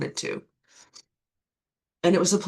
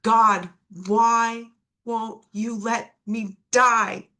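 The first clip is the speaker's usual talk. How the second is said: desperate cry; 4 semitones higher, 5 dB louder, much slower than usual. Retold or imitated. Her desperate prayer on knees.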